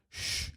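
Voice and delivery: "sh" held long, all air; shushing sh. Shown as a demonstration. Teacher showing the birdie letter, long hushing sh. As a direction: shush somebody with a drawn-out "sh". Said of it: "like you're shushing somebody".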